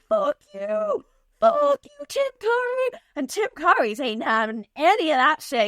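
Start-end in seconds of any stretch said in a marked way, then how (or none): 0.1-3.0 much higher, spat curse; hammed-up defiant snarl; mock furious. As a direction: tell him off with theatrical contempt. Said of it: "she's like".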